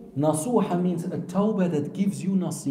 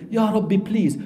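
higher-pitched imitated pleading; panicked plea; 4 semitones higher than usual. Repentant sinner begging Allah, panicked. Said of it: "you're in panic, and that you say".

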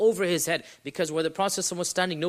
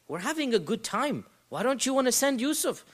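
higher-pitched, pushy mock pleading; guilt-tripping; 5 semitones higher than usual. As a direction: act out brothers guilt-tripping their father. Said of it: "This is the underlying tone".

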